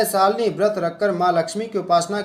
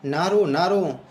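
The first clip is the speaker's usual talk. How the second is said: tender soothing; slower than usual. Acted. Old woman comforting weeping Shalini, slow and tender. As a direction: hush a crying child gently. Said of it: "प्यार से पुचकारते हुए कहा".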